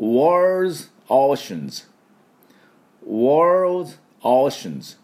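worlds, oceans crisp with high start; model phrase. Shown as a demonstration. Teacher leading the class in repetition, high start. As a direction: say it for them to repeat. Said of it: "私の後について発音いきましょう".

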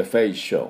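フェイシャル said as English facial, ending in "shul"; English reduced vowel. Shown as a demonstration. Teacher showing the weak A, フェイシャル in English pronunciation. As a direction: drop the ャ of フェイシャル almost entirely. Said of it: "発音しなくてもいいぐらいです".

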